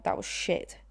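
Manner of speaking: voiceless whispered verdict; whispered quote. Retold or imitated. Imagined comment on their accents, whispered. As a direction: hush it like a snide commenter. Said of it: "everyone in the comments is gonna be like".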